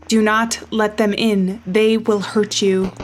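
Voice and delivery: slow, grave broadcast voice; measured public warning, each word weighed; announcement read. Acted. Radio warning the player, read as a slow broadcast.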